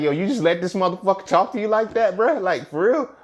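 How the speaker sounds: high, loud, outraged challenge; gangster kicking out. Retold or imitated. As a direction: let the inner gangster confront them. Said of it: "the gangster in me is kicking out".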